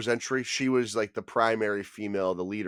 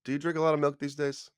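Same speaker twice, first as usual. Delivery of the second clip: creepy clown voice; 5 semitones higher, faster than usual. Acted. Clown line repeated.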